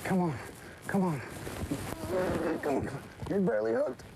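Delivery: high, pleading, frantic; begging the fish to stay on; shrieking jackpot winner. Real, not acted.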